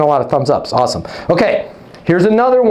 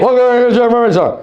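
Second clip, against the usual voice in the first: rude version; 5 semitones higher, much faster than usual. Shown as a demonstration. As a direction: snap the question out like you want them gone. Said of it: "'Cause that's rude".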